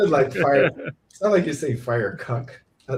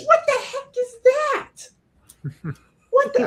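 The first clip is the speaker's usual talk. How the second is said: put-on little kid's voice; 3 dB louder than usual. Dad imitating Enzo on their walk, squeaky little voice. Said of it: "It's so funny hearing that little voice".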